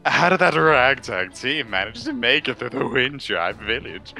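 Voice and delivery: sly, sneering villain; lightly voiced creepy schemer. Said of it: "gave him a creepy voice".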